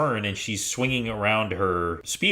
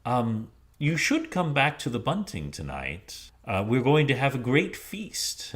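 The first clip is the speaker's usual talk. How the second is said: drow leader; 4 semitones higher than usual. Acted. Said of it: "the leader turns to Zuana".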